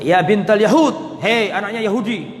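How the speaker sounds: retold jeering call, first part drawn out; mock name-calling; mocking taunt. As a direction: taunt her by her parentage. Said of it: "tujuannya mengejek siapa tadi".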